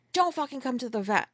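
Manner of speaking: mildly heated retold order; pissed off. Driver ordering passenger to stay away, pissed off. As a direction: re-enact a cross warning, kept in check. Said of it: "I was pissed".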